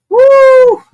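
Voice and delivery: high sharp sarcastic woo; a sudden sarcastic whoop; mock cheer. Real, not acted. Streamer whoops at the bill's question, mock cheer.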